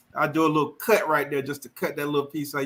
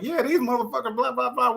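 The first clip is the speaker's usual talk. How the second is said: imitating the chicken; 8 semitones higher than usual. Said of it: "the chick was like".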